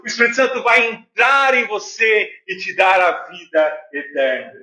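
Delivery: emphatic, driving sermon delivery; preaching. Real, not acted. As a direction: preach it to the congregation with steady conviction. Preaches to the congregation.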